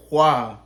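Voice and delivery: loud whooshed "wha" of a blade; imitated slash noise. Showing partner how the knife slashed, imitated slashing noise. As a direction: make a sharp slicing sound effect. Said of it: "like this".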